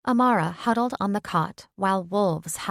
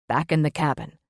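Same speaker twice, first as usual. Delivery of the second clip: commanding; 3 semitones lower, 4 dB louder than usual. Acted. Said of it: "he commanded".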